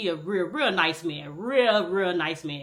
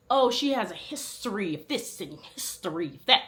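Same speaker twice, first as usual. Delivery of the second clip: proper voice; 3 dB quieter than usual. Retold or imitated. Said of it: "talking in her proper voice".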